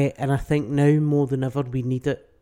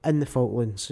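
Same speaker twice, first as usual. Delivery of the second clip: loud government denial; 5 dB louder than usual. Retold or imitated. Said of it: "when we went to war in the Falklands".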